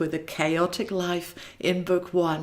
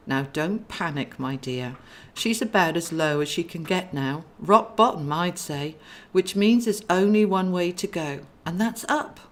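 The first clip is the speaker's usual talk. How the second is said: calming brother. Acted. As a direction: settle her down gently. Brother calms sister.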